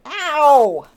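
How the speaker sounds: sudden loud yelp of pain. Real, not acted. Owner hurt by her bird mid-sentence, pained yelp.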